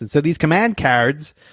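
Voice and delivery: bad, over-the-top put-on American accent. Explaining command cards in a put-on way: exaggerated bad American accent. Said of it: "I'm going to try to do this in the worst American accent".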